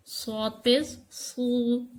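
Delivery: सू said thick and heavy, emphatic s. Shown as a demonstration. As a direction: make सू heavy and full. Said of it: "इसे मोटा पढ़ेंगे".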